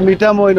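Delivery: মিঠামই said carefully as "Mithamoin"; corrected pronunciation. Shown as a demonstration. Settling the market's name after asking locals, মিঠামই pronounced carefully as "Mithamoin". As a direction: slowly sound out মিঠামই, ending "-moin". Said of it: "মিঠামই হবে উচ্চারণটা".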